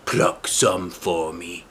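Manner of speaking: slow pleading wolf voice; begging wolf. Acted. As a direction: beg slowly, wheedling. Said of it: "the wolf begged".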